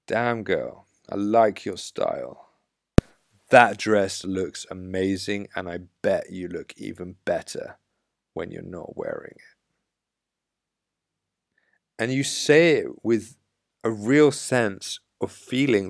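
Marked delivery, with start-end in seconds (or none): 0.1-9.6 confident flirty compliment. Shown as a demonstration. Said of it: "Allow yourself to get sexual with your compliments".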